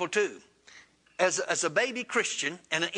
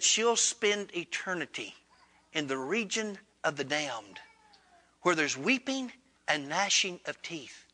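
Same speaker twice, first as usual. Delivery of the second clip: sad reply; 4 dB quieter than usual. Retold or imitated. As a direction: deliver the sentence sorrowfully, with long pauses. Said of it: "And the Lord replied sadly".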